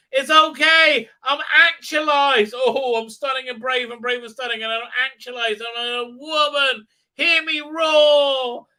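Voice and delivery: high, loud, hammed-up proclamation; mock empowered woman. Mocking the show's heroine, a high, loud, hammed-up proclamation. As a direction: lampoon a self-declared heroine shouting.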